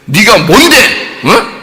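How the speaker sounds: who-do-you-think-you-are jab; confrontational challenge. Acted. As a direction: throw it out as a haughty challenge. Acted challenge confronting stubborn Job.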